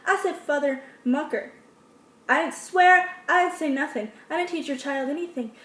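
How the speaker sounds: sassy comeback. Pretend. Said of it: "you can be like".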